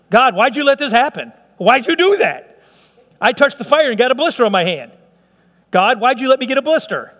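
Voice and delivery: mock complainer blaming God, whiny; mock whining. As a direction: whine like a spoiled child.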